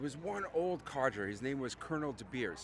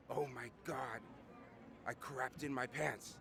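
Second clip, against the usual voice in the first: put-on low, slow old colonel's confession; 3 semitones lower, 5 dB quieter than usual. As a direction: admit it slowly, dropping after the roar. Old colonel's comic confession after the roar.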